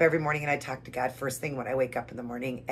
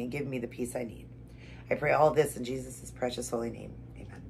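mealtime prayer; 2 semitones lower, 3 dB quieter than usual. Real, not acted. Woman thanks Heavenly Father for her food, quiet prayer. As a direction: talk softly and earnestly to God. Says grace before eating.

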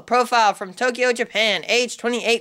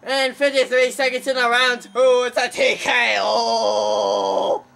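mock ring announcer. Gamer announces his own knockout win, slow hammed-up announcer shout. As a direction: stretch out the TKO like a boxing announcer.

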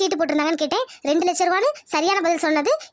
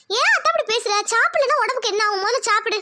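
put-on higher young girl, coaxing; urging daughter; 6 semitones higher than usual. Daughter coaxing mother to eat. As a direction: coax her to eat.

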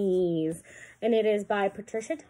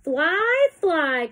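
higher, louder call; 4 semitones higher, 4 dB louder than usual. Acted. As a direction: warn the bees to fly. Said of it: "called the birds to the bees".

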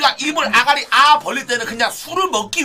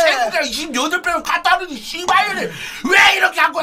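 angry shout; 5 semitones higher than usual. Real, not acted. Heated drunken quarrel.

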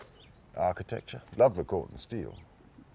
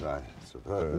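a James Bond voice; 6 semitones lower, 3 dB quieter than usual. Real, not acted. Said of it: "you sound like James Bond".

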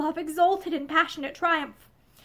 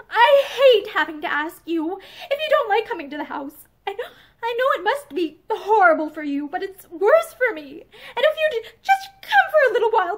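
louder, high, pleading through sobs; broken with sobs; 5 semitones higher, 5 dB louder than usual. Acted. Wife begging the man she loves to come, sobbing. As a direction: beg him with a breaking, sobbing voice. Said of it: "her voice was all broken up with little pitiful sobs".

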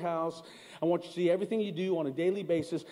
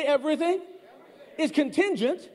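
"Everything" lifted, "is contingent" spaced out; call for response; 8 semitones higher, 3 dB louder than usual. Shown as a demonstration. Preacher leading the congregation in saying "Everything is contingent". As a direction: lead the room through "Everything is contingent". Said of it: "Somebody say that with me".

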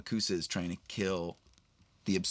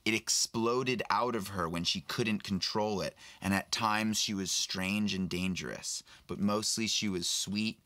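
steady storybook reading, lightly voiced old man; reading a novel aloud. Actor reading Aberforth's lines to a fan host, lightly voiced. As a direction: read the passage to your friend. Reads Deathly Hallows aloud.

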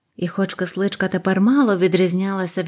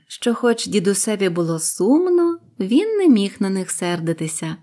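ordinary delivery, nothing marked

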